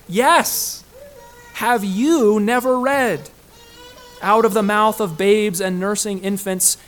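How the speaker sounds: loud, high, ringing challenge; emphatic rebuke. Acted. Preacher voicing Jesus answering indignant rulers, emphatic rebuke. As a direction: proclaim it slowly and forcefully, as a challenge.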